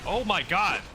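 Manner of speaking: high, panicked yelps and gibbering; terrified gibbering. Real, not acted. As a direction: panic as if being chased. Panicking during monster attack.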